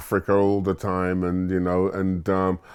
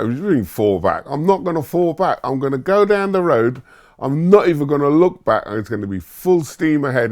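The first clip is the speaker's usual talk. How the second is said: put-on higher, louder, insistent young voice; defiant teenage retort; 7 semitones higher, 4 dB louder than usual. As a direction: push back hard, sure of yourself. Teen son defiant against dad.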